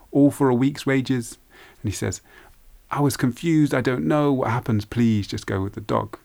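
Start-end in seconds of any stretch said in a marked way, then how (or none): 0.1-1.4 higher-pitched, mildly indignant question; raised pitch, reproachful daughter; indignant protest. Acted. Daughter reproaches father for trade. 2.9-6.2 high-pitched, urgent excuse easing down; flustered father begging his daughter; flustered pleading. Acted.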